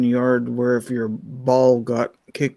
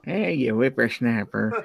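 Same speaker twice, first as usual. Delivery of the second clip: put-on slow cranky old man voice; grumpy old-timer scolding kids; old prospector; 4 dB quieter, slower than usual. Old man teasing the youngsters.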